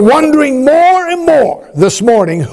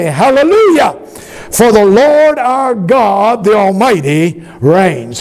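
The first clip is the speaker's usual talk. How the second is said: call and response. Shown as a demonstration. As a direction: lead the congregation, stretching out Lord. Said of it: "say it with me".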